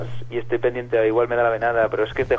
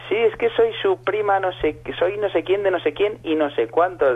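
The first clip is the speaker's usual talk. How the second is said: higher, slow put-on caller voice; female prank caller; 7 semitones higher than usual. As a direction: fake cousin rattling off a name. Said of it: "Y dice". (voz aguda y lenta de la supuesta prima)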